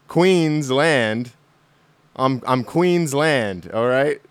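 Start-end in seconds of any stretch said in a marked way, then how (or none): 2.2-3.7 slow, proud Aussie self-introduction; Australian accent. Pretend. Podcaster introducing his Queensland character: slow Aussie. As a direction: draw out the name in a mock Australian accent. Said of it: "do my Australian accent".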